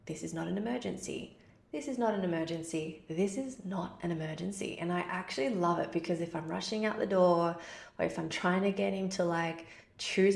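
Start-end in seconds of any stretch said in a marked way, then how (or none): 0.0-4.8 calming mantra. Retold or imitated. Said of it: "her just saying".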